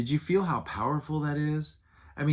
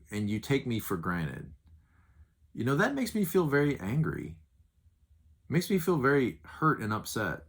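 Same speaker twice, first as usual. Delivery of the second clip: controlled, sincere anger. Shown as a demonstration. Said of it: "It's very powerful to say".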